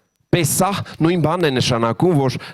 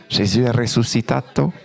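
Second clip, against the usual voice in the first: mock Italian; 2 semitones lower than usual. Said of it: "Ça c'est italien".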